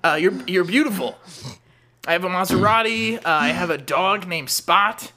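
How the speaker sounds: low, hesitant creepy-neighbour voice; awkward neighbour. Acted. Plays awkward neighbour Daniel.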